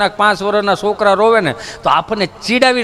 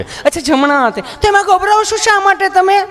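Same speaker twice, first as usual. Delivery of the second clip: higher, cooing nurse; high syrupy nurse voice; sweet nurse; 10 semitones higher than usual. Retold or imitated. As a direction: coo at him like a sweet nurse. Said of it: "nurse cooing".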